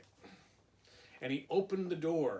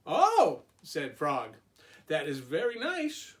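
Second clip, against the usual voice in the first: Frog voice; 4 dB louder than usual. Acted.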